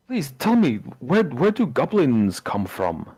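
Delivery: lightly acted wondering plea; slow, lilting curiosity; intrigued villager. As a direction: ask in drawn-out fascination. Villager eagerly questions the goblin.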